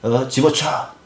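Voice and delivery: high-pitched, hammed-up exasperation; mock angry dismissal. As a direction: imitate someone crossly giving up on another. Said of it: "막 화를 내거나".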